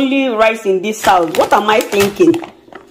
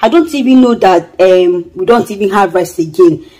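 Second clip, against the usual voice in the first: rehearsed pleading. Pretend. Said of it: "I'll be like".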